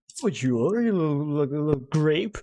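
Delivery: lightly hammed English-accented scolding; English-accented father. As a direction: finish the mock insult in an English accent. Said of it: "say father in, like, an English accent".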